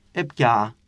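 έπια ending in two joined vowels, no h; consonant fully dropped. Shown as a demonstration. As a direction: hold both final vowels of έπια with nothing between. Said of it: "Και μετά τα δύο φωνήεντα γίνονται ένα". (έπια με δύο φωνήεντα, χωρίς σύμφωνο)

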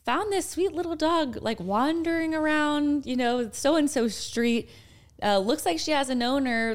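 put-on high voice for a neighborhood post; voicing an online post. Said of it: "the very first post was like".

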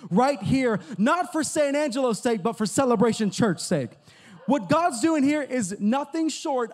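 rising, emphatic sermon delivery; preaching. Acted. Pastor stirring up the congregation, preaching with force. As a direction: preach it with swelling conviction.

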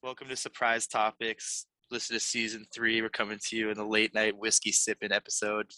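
easygoing parody radio intro; mock late-night podcast intro.

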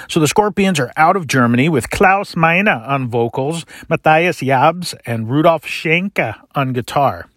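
names read in a put-on German accent; lightly hammed German accent; fake German accent. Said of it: "my fake German accent".

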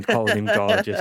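mock swoony. Mocking chat's gorgeous.

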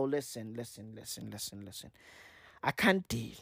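very soft, low repeated appeal; quiet mock-weary complaint; hushed acted plea. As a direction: drop to a low murmur, pleading on the phone. Acted phone plea to animal welfare.

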